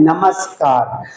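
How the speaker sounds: नमस्कार as namaskar with a clean s; slow clear namaskar; correct pronunciation. Shown as a demonstration. Teacher restating the correct namaskar for students. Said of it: "सही उच्चारण है".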